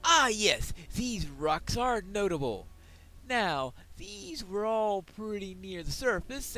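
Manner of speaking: loud, hearty dwarf prospector. Acted. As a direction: boom it out like a proud dwarf. Voices the dwarf quest giver.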